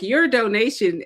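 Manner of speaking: slow, lightly put-on pledge-drive voice; a touch of drawn-out ad-speak; mock PBS commercial. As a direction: imitate a TV donation appeal. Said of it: "those P B S commercials where they're like".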